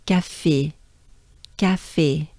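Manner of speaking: café with a clear final é; careful French café; French é ending. Shown as a demonstration. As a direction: model the é at the end of café. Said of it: "Think of the end of the word".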